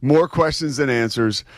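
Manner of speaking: mock hurricane-coverage cadence; lightly put-on newscaster voice; TV news reporter. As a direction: deliver it like a storm correspondent. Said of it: "dipping into my T V news background".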